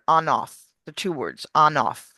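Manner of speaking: "on off" run together as "o-noff"; linked words. Shown as a demonstration. Coach explains linking, saying "on off" as one word. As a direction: link the N of ON onto OFF. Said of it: "there's also linking".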